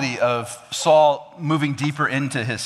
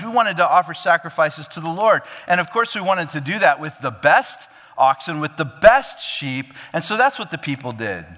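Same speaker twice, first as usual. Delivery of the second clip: higher, louder, self-justifying; Saul's pious excuse; 5 semitones higher, 4 dB louder than usual. Acted. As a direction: dress the excuse up in holy words. Saul's pious excuse, acted quote.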